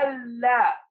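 ألا with the L held long; doubled lam. Shown as a demonstration. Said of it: "واللام الشمسية ما بننطقها".

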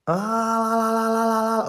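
high wailing no no no; mock crying wail. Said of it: "صياح". (عويل باكٍ مصطنع)

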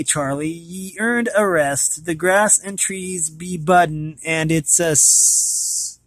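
put-on old Irish stableman bidding his horse farewell, in a brogue; Irish accent. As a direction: send the old horse off kindly, in a thick Irish lilt. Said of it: "getting this accent right".

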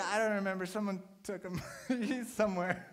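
laughing excuse. Retold or imitated. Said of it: "And she's like".

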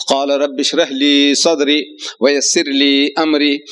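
fast chanted Arabic recitation; Quran recitation. Real, not acted. Preacher recites the prayer before speaking, chanting fast. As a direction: recite the verse briskly in Arabic.

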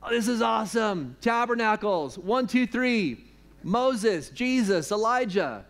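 excited Peter. Retold or imitated. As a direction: gush like a thrilled disciple. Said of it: "Peter is like".

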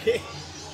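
quick snort of laughter. Real, not acted. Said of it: "I don't know why I just snorted".

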